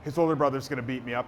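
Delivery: mock-scared, rushed to yourself; retold fear. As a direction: imitate fretting under pressure, quickly. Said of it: "I was so scared".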